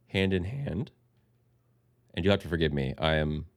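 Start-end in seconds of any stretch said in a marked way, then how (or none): 2.1-3.4 nasal voice. Real, not acted. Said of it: "so I sound a little nasally".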